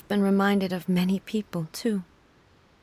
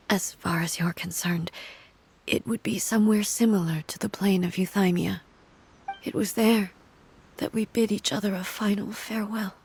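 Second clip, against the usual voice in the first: hushed grief. Acted. The Shogun tells the traveler of Makoto's death in a hushed, grieving voice.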